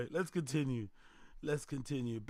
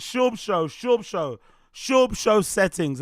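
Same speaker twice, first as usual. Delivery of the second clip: drawn-out hype; 3 semitones higher, 6 dB louder, slower than usual. Acted. Hyping his own show name.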